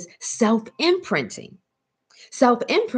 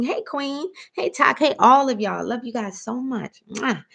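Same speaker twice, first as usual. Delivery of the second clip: bubbly and much higher, tossing out hellos; upbeat hellos to friends, pitched way up; gushing greetings; 5 semitones higher than usual. Acted. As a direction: sound like you adore everyone. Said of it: "You must be thinking".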